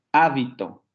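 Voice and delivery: HÁ-bito, con la primera sílaba marcada; acento en la primera sílaba. Shown as a demonstration. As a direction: di «Hábito» aislado, acentuando HÁ. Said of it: "el cambio del acento produce cambios". («Hábito» esdrújula, golpe en HÁ)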